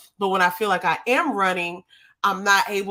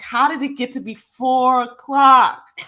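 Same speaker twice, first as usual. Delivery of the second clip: surprised; 4 semitones higher, 8 dB louder, slower than usual. Retold or imitated. Retold own surprise.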